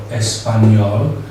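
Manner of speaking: Español said as three syllables, es-pa-ñol; three-syllable pronunciation. Shown as a demonstration. Teacher showing the masculine form, Español in three syllables. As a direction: give Español three syllables, ending on the consonant. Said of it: "three syllables".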